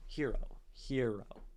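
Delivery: "hero" with weight on "he", falling away on "ro"; stress on first syllable. Shown as a demonstration. Poet checking the word's meter, "hero" stressed on its first syllable. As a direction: test the beat of "hero", front-stressed. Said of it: "Hero is a trochee".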